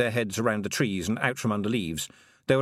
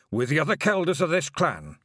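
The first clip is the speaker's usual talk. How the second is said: a hint of a sorrowful old Feagle elder; old Feagle William; 6 semitones higher than usual. A narrator's reading. William speaks.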